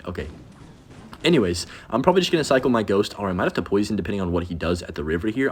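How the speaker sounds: normal talking voice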